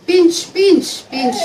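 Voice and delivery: high, loud urging chant of pinch. Real, not acted. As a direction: egg the audience on to pinch harder. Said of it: "pinch yourself".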